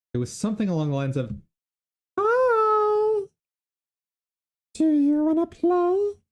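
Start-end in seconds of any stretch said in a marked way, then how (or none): 2.1-6.1 very high, very slow, spooky creepy doll voice. Recalling an old voice they used to do, the speaker uses a creepy doll voice. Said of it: "my creepy doll voice".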